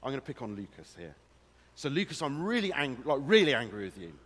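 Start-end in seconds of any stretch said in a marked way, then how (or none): 1.8-4.1 mock telling-off, quick and firm; staged anger at someone in the room; pretend anger. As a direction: play at being really angry, pushing the volume. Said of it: "say I get really angry with someone".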